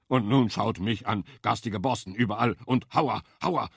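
self-pitying boar building to loud high moans; lamenting wild boar. A narrator's reading. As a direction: wallow in self-pity, rising to oh, oh. Boar laments his looks.

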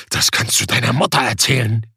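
low giant voice, scornful. A narrator's reading. Giant dismissing Sebastian's excuse, low and scornful. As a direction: brush his plea aside.

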